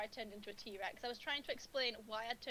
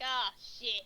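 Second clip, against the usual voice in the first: mock scream; 7 dB louder than usual. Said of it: "it just turns into a Nessa scream".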